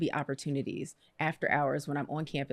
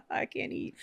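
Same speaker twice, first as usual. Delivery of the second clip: laughing joke; 4 dB quieter than usual. Retold or imitated. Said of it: "make the joke".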